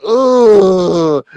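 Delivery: loud, high drawn-out "ugh"; disgusted groan. Acted. Host reacting to his partner talk, disgusted groan.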